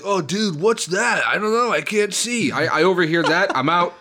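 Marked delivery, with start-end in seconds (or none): 0.0-2.5 higher, worried guy voice; nervous swimmer. Retold or imitated. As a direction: act like a worried beachgoer. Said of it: "some guy's like".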